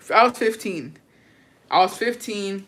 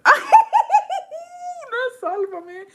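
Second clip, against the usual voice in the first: laughing; much slower than usual. Real, not acted. Laughing at the song choice.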